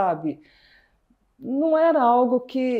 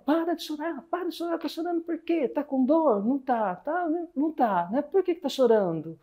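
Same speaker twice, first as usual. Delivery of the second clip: higher, softer mother voice, lightly voiced; a mother telling her child to stop crying, higher and quieter; mother scolding; 5 semitones higher, 3 dB quieter than usual. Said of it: "E aí minha mãe fala". (mãe mandando parar de chorar, voz mais aguda e baixa)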